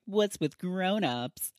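drawn-out, exasperated mock teen groan; eye-rolling. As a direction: imitate someone rolling their eyes at adults. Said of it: "eye rolling".

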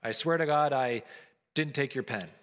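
casual throwaway oath; offhand modern "swear to God"; flippant swearing. Retold or imitated. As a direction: toss it off like everyday chatter. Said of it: "we just use it flippantly".

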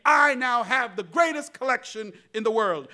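boastful collector. Acted.

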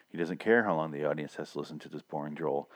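ordinary talk, nothing marked

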